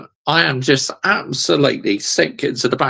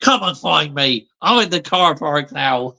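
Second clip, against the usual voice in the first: laughing quote; 3 semitones higher than usual. Retold or imitated. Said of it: "echoing the clip's line".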